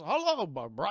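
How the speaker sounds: loud, swooping glitchy greeting; put-on jumpy screen-character voice; staticky AI butler. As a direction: imitate a weird computerized butler. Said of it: "It's all, like, staticky and weird".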